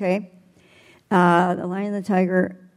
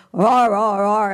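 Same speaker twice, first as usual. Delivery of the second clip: open roar; 4 dB louder, slower than usual. Shown as a demonstration. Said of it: "and this is all open".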